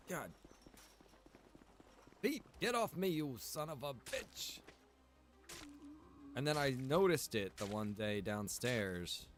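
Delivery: ordinary delivery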